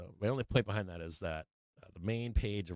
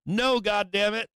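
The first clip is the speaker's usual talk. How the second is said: high, loud, slow yell; exasperated shout; 10 semitones higher, 6 dB louder, slower than usual. Acted. Streamer answering his question to critics, exasperated shout.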